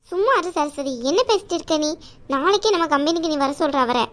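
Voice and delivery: caring aunt voice. Acted. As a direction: play the protective chithi, chiding but kind.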